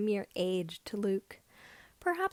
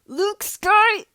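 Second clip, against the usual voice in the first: sudden loud yell from off to the side; an angry man shouting for Luke; man's shout; 10 semitones higher, 14 dB louder than usual. Acted. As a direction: bellow his name across the yard. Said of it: "interrupted by a man's shout".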